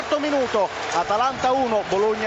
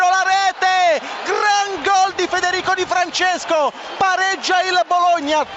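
breathless italian goal commentary; 3 semitones higher than usual. Real, not acted. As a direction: call the equaliser breathlessly. Goal call in live commentary. (telecronaca concitata del gol)

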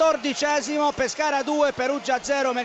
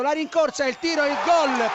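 breathless italian goal commentary. Real, not acted. Penalty taken and scored.

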